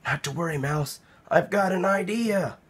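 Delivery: a hushed, easy-going rabbit; Rabbit's voice. Acted. Rabbit reassuring Mouse, soft and unhurried.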